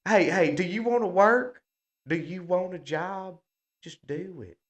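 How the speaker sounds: a pushy boss whose demand dies away; mock boss, fading to mutter. Mocking a boss pushing the shot.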